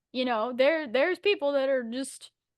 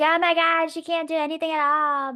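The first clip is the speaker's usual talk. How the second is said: loud, higher mock gasp at the heroine; mock gushing reader; 4 semitones higher, 3 dB louder than usual. Mocking dark romance fans, gushing loudly. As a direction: gush over the helpless heroine, mocking.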